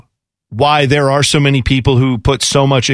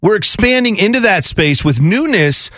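crypto bro; 3 semitones higher than usual. Retold or imitated. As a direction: lightly mimic a hyped crypto bro. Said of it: "sounds like every crypto bro".

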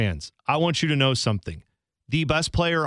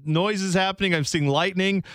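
rising higher into an incredulous squeak; mock clueless; 4 semitones higher than usual. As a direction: play dumb about the obvious rain. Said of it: "It's like".

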